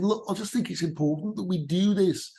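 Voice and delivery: high-pitched Labour leader impression; Ed Miliband. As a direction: imitate a politician earnestly making a point. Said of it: "you get Ed Miliband".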